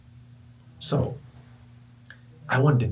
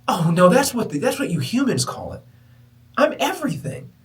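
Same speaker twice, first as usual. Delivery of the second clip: voice of the universe; 9 semitones higher, 7 dB louder than usual. Retold or imitated. Universe replies.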